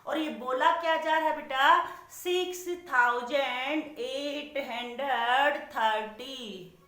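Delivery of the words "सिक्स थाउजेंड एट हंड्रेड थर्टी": slow read-aloud. Shown as a demonstration. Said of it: "पहले आप इसे बोल कर देखोगे".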